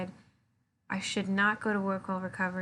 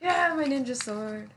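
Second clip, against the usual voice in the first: hammy ninja voice; 4 semitones higher, 4 dB louder, slower than usual. Pretend. Playing with toy sword.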